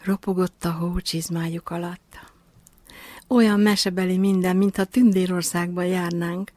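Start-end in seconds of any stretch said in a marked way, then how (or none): 3.3-6.5 brightly enthused, a touch louder; a little girl marvelling, thrilled; gushing with delight. Acted. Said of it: "lelkendezett a kislány". (lelkendezve, kicsit hangosabban)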